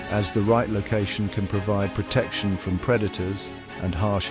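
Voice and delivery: calm, measured documentary narrator; nature documentary. A narrator's reading. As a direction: narrate over wildlife footage, steady.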